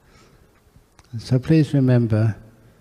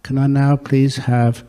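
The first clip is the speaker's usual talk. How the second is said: slow heartfelt plea. Acted. Son's heartfelt request.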